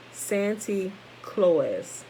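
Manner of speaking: slow, drawn-out Santy Claus said as the Dutch did; Dutch-accented Saint Nicholas. Shown as a demonstration. Reading to the class, slowly sounding out the Dutch version. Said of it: "it sounded like this".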